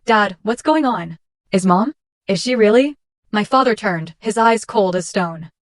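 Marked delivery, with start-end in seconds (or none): 0.0-3.0 voice breaking. Acted. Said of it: "my voice breaking".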